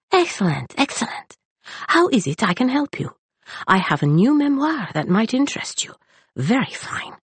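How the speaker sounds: a lightly voiced eager little man; eager librarian. A narrator's reading. Librarian offers a memoir.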